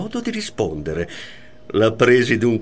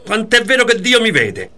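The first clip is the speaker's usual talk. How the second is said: high, loud mock vow; retold shrill oath, louder; imitated frantic oath; 9 semitones higher, 4 dB louder than usual. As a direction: swear it like she did, pitched up. Man quoting his wife's oath.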